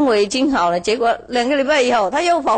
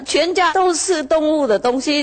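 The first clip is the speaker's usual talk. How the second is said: higher whining farmer voice, leaning on 都, ending in a rise; complaining farmer; 5 semitones higher than usual. Retold or imitated. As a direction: raise it up and lean on 都 as he complains. (农夫向师父诉苦，高声强调"都")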